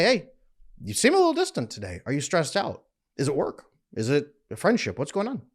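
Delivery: a hint of a caring wife's questioning; wife checking in. Securely attached wife asks her stressed husband, light check-in. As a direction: lightly imitate a wife's easy check-in, pitch lifted at first. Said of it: "she'll look at me and say".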